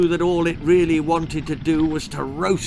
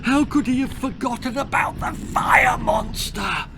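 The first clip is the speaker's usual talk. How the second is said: higher, louder, rising panic; sudden alarm; 9 semitones higher, 3 dB louder than usual. A narrator's reading. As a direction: gasp out the dreaded name. Boy suddenly remembers the monster.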